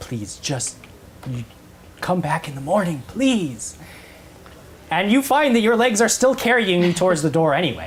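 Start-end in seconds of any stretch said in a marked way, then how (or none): 0.0-3.8 pleading whisper, slower. A game master voices an acolyte as a player's character walks away, pleading whisper. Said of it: "and he's whispering".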